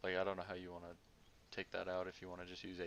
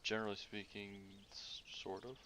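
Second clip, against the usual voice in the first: hushed, unsure whisper; 4 dB quieter than usual. Real, not acted. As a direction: breathe it out uncertainly. Hesitant unsure answer on comms.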